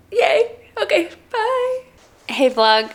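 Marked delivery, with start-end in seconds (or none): 0.1-1.8 excited. Real, not acted. Cheery sign-off of vlog clip.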